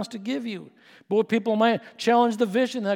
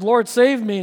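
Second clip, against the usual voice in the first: Peter's cry for help; 5 semitones higher, 7 dB louder, slower than usual. Acted. Peter cries out sinking.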